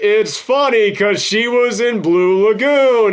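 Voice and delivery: milk the groaner for the crowd; hammy quip. Retold or imitated. Retelling the movie's reference joke, mock showman delivery.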